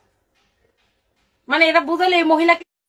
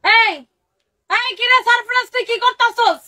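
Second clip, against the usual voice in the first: high mock yell at husband; loud yelling wife; 6 semitones higher, slower than usual. Wife yelling at husband across the flat, high and loud. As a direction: call out at him, loud and high. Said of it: "আর আমি হচ্ছে এই চিল্লানি".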